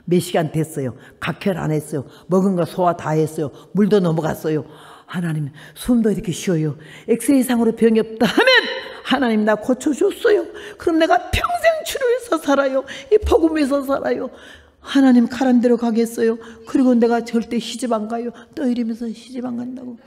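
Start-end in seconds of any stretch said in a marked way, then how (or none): 0.0-6.8 quiet prayer. Retold or imitated. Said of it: "거기서 다시 기도". 7.1-18.3 pleading prayer. Retold or imitated. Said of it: "거기서 다시 기도".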